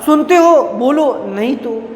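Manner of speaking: sharp high angry burst that drops off at the end; angry threat. Acted. Writer finally loses temper with silent boy, angry threat. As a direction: threaten him angrily to make him talk. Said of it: "अंत में गुस्सा होकर कहा".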